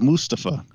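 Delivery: Mustafa as MOOS-tuh-fuh; first-syllable stress. Shown as a demonstration. Correcting co-host on wrestler's name, Mustafa stressed on the first syllable. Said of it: "that's how he says it".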